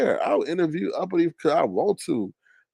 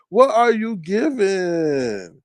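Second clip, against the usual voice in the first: slower, stretched-out taunt; mocking question; 4 semitones higher, 4 dB louder, much slower than usual. Real, not acted. Roasting her birthday, even slower mocking question. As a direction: stretch every word to mock.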